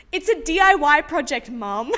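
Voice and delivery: loud sassy throwing shade; sleep-talking sass. Retold or imitated. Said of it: "I was like".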